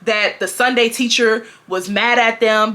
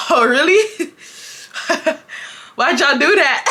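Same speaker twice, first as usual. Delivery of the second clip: mock furious mom; 3 semitones higher than usual. Furious mom confronting kids.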